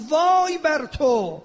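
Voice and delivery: drawn-out, emphatic denunciation; stern rebuke. Retold or imitated. Imam rebuking Yazid's court preacher, stern rebuke. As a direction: stretch out the rebuke like a preacher quoting a condemnation. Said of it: "به خطیب درباری یزید فرمود".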